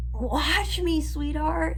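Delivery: defiant retort. Retold or imitated. Bella retorting to Edward's voice before the cliff jump, sassy and high. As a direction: toss it back like a dare. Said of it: "she's like".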